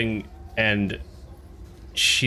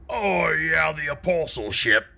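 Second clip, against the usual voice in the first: dwarf's voice; 6 semitones higher than usual. Acted. Tumbleweed answers about the ship, mimicking a dwarf's voice. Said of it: "in a dwarf's voice".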